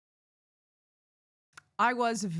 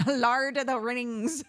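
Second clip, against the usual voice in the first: laughing demo; 6 semitones higher, 5 dB louder, slower than usual. Shown as a demonstration.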